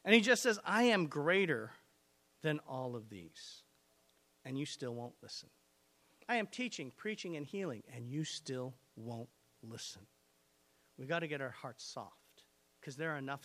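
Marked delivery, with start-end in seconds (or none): 0.6-10.1 Jesus rebuking. Acted.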